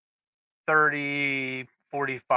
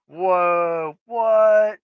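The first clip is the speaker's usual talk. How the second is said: startled; 5 semitones higher, 5 dB louder than usual. Retold or imitated. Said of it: "and I'm like".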